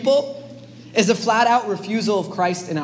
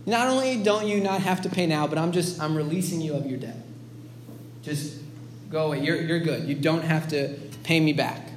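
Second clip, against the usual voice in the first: soft, low, lightly acted reassurance; gentle forgiving; 6 semitones lower, 6 dB quieter than usual. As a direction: let him off quietly, mildly voiced. Master forgives the servant's debt.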